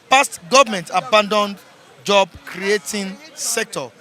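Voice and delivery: announcer headline read. Acted. Reviewer announces front-page headline to viewers, punchy. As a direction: announce it over the jingle.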